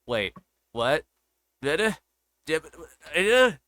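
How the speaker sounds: baffled, rising disbelief; like a stunned player mid-game; confused surprise. Retold or imitated. Confused player hit by twist.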